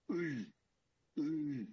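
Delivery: "Uy" said as a back-of-the-throat vowel, pitched a little up and drawn out; Ukrainian vowel demo. Shown as a demonstration. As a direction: sound out "Uy" from the back of the throat, carefully. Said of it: "I will try and pronounce it now".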